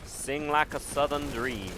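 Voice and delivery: put-on Southern debutante accent; Southern belle accent. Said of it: "with this Southern accent".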